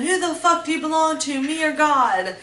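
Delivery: replaying the abuser's furious demand; retold angry yelling. Abuser yelling at her during the beating, angry. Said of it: "He said again".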